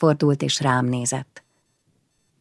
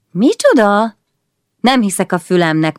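higher, louder disbelieving cry; indignant surprise; 5 semitones higher, 4 dB louder than usual. Acted. Bora hearing Péter's taunt, indignant disbelief. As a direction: react as if you misheard. Bora outraged at his request.

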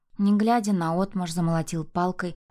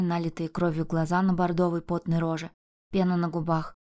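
ordinary delivery

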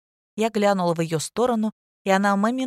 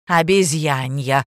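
a slow, louder hot-tempered snap; heated retort; 3 semitones lower, 6 dB louder, slower than usual. Acted. The literature teacher scolding pupils, heated and slow. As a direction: fire it back, indignant and slow. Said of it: "запальчиво сказала литераторша".

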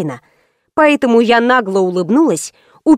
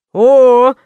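a louder, delighted exclamation; gleeful shout; 5 dB louder than usual. A narrator's reading. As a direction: call out happily at the find. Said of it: "радостно воскликнул один из парней".

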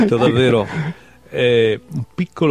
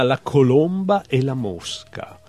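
measured literary recital with lifted titles; poetry reading; slower than usual. Acted. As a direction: read short animal poems, letting each ending drop away. Reads own poems aloud. (lettura poetica recitata)

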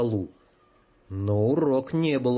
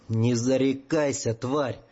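hoarse rasp; slower than usual. Acted. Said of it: "прохрипел Артур".

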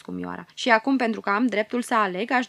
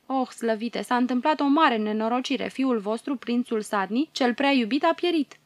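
crushed by grief; 2 semitones higher than usual. Acted. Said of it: "Vorbește cu glas zdrobit de durere".

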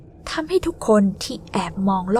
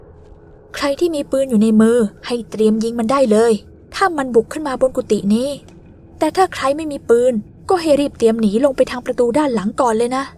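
loud command; 3 semitones higher, 3 dB louder than usual. Acted. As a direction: shout instructions to the group. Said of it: "สั่งทุกคนเสียงดังลั่น". (สั่งเสียงดังอย่างเร่งรีบ)

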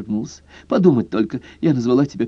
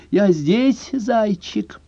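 high, cooing female voice; coy woman's voice; 11 semitones higher, much slower than usual. A narrator's reading. Girlfriend answering her lover, high and cooing. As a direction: coo it like a kept girlfriend.

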